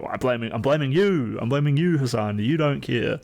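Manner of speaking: half-joking rant, rising toward Hassan; mock accusation.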